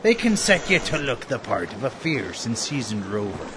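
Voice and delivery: salty pirate bosun; old sea dog explaining. Acted. Bosun speaks in pirate talk.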